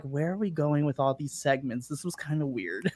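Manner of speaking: a quiet, confused aside; muttered aside. Retold or imitated. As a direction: say it under your breath, baffled. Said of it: "I was just like".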